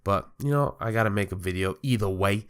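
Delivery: stuffy nose, sounding congested; blocked nose from a cold; nasal cold voice. Real, not acted. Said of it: "I apologize for the nasally voice that I sound like I got a cold".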